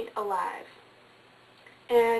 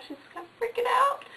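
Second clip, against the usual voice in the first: quick whisper; 12 semitones higher than usual. A narrator's reading. Wife panicking alone in car.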